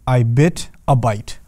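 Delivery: slow, measured example sentence; deliberate demo phrase. Shown as a demonstration. Teacher showing how Arabic emphasis sounds in English, deliberate demo. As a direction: spell out "I bit a bite" slowly. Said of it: "it'll sound something like this".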